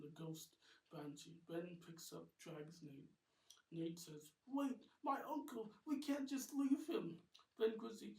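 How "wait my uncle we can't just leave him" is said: high, loud pleading; desperate protest. Acted. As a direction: cry out to stop. Nate protests being dragged away.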